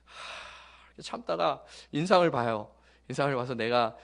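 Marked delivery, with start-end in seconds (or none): 0.0-0.9 long, unvoiced calming exhale; deep breath out. Pastor calming himself at noisy students, deep breath out. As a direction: let out a held breath to stay calm. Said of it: "심호흡을 해요".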